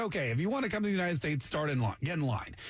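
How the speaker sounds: brisk order to a queue, lightly acted; American recruiter. US official to refugees at the table, brisk official. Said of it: "The United States came up with".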